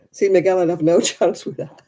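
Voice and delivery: amused, breaking into a laugh. Real, not acted. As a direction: let a laugh break in mid-sentence. Laughing at own helplessness with accents.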